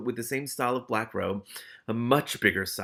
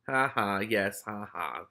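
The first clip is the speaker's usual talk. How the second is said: gloomy; slower than usual. Acted. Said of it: "said Morris gloomily".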